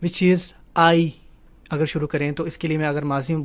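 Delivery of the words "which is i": very slow. Shown as a demonstration. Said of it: "teacher explains".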